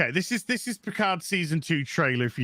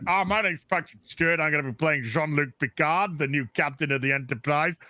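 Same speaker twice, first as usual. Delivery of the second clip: Patrick Stewart mock intro. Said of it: "just like Patrick Stewart".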